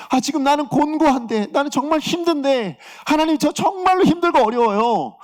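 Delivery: high-pitched retold lament to God; reenacted cry of complaint in prayer. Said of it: "이십사 절의 탄식의".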